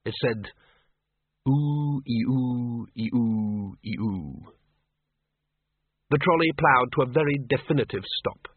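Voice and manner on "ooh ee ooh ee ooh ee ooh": drawn-out ghostly "ooh-ee-ooh"; banshee wail. A narrator's reading. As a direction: wail like a banshee, fading away. Banshee's note read out as wail.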